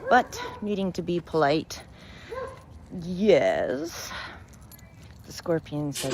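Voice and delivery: unhurried storyteller reading a fable; story narration. A narrator's reading. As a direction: tell it like a bedtime fable to your followers. Reads a fable to viewers.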